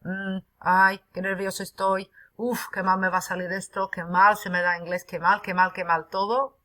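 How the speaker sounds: lightly acted nervous Spanish fretting; mock anxious thoughts. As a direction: play a student's rushing inner panic. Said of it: "If you think in this".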